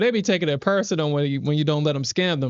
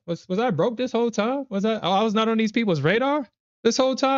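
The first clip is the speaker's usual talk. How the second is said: mock disbelief; 8 semitones higher than usual. Retells own reaction to scam emails.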